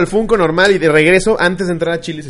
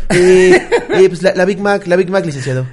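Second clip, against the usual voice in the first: shy chauffeur; 2 semitones higher, 4 dB louder than usual. Acted. Timid chauffeur voiced, "con pena.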